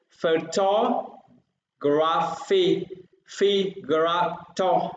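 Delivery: "photography" broken up, then "phi", "gra", "to" separately; syllable by syllable. Shown as a demonstration. Teacher counts from the word's end, "phi, gra, to" separated. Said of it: "thứ ba từ dưới lên".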